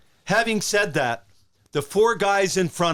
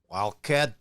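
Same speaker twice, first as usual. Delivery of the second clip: Ted Lindsay; 2 semitones lower than usual. Retold or imitated. Team boss phoning a player to recruit him, lightly impersonated. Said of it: "that's a great Ted Lindsay impression".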